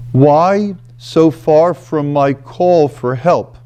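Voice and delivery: measured reading of a lament; scripture reading. Acted. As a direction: read the psalm slowly, with weight. Reads the psalm aloud.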